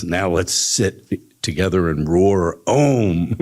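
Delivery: slow, serene guru voice; guru lion. Acted. Guru lion invites the young lion to roar Om, slow and serene. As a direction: invite him gently to meditate.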